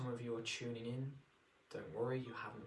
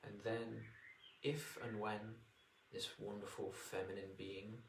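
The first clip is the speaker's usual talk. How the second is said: guided meditation. Acted. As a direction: ease them into relaxation.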